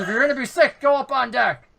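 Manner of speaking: bugbear voice. Acted. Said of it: "He goes".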